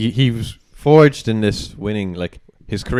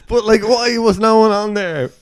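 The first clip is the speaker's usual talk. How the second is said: laughing disbelief; 13 semitones higher, 4 dB louder than usual. Real, not acted.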